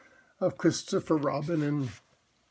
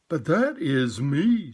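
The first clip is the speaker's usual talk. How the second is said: surprised; slower than usual. Acted. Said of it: "very much surprised".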